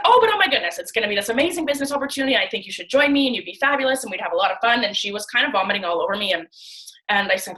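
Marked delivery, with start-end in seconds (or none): 0.0-4.8 much higher, excited sales pitch, speeding up; gushing friend. Retold or imitated. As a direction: gush over the opportunity like an eager recruiter.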